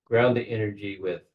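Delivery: measured guiding voice with long pauses; unhurried guide, pausing to let each image settle; guided meditation. Real, not acted. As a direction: talk them gently into a visualization, phrase by phrase. Leads a guided visualization.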